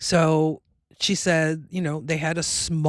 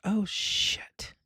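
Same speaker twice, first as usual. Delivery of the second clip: whispered inner curse; 4 semitones higher, 5 dB quieter than usual. Retold or imitated. Inner thought, everyone staring.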